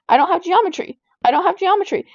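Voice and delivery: repeated protest, mildly acted; insistent retold denial. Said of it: "And I kept telling her".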